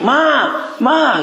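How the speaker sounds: put-on high child's call for mama. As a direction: call out like a small child waking up. (panggilan anak kecil memanggil mama)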